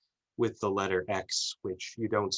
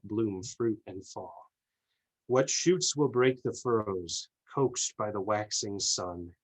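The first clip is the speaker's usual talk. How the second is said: measured, deliberate verse recital; poem reading. Acted. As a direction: recite your poem, pausing between the lines. Reads own poem aloud.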